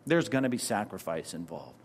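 ordinary talk, nothing marked

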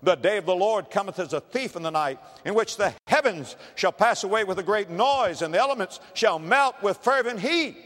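solemn preaching read of scripture; building sermon scripture read. Acted. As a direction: proclaim the verse with rising weight.

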